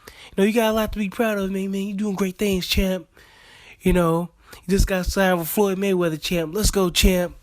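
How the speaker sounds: lightly hammed-up encouragement; motivational pep talk. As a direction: hype up the fighter, cornerman style. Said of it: "do that motivation".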